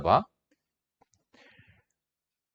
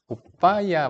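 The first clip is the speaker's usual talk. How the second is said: higher-pitched, coy call to a husband; 여성스러운 말투; 5 semitones higher, much slower than usual. Retold or imitated. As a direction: lightly imitate a sweet, girlish wife. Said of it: "여성, 여성하시 막 그런 분들이었어". (살짝 여성스럽게 흉내 낸 말투)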